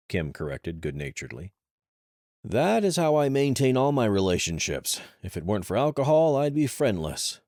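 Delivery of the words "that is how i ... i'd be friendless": higher, louder teasing woman; playful self-mocking jab; bright teasing female voice; Kim's voice. Kim teasing with self-mockery.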